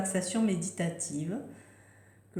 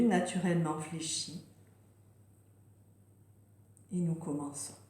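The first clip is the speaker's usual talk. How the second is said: unhurried meditation voice with long pauses; guided relaxation. Real, not acted. Yoga teacher settling listeners into yoga nidra, gentle guided relaxation. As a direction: guide them gently into rest, leaving space between phrases.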